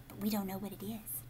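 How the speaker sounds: quick hushed whisper; whispered secret. Real, not acted.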